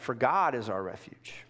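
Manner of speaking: hushed whispered verse; whispering. Real, not acted. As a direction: whisper the verse under the breath. Reading verse softly.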